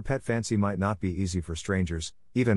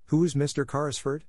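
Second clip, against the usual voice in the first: high-pitched calling question; excited schoolgirl demand, pitched up; mild shout; 6 semitones higher than usual. A narrator's reading. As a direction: call it out eagerly, short of a full shout. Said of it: "shouted Jessie".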